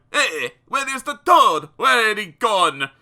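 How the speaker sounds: loud, baffled Frenchmen; puzzled cry. Acted. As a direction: cry out in confusion.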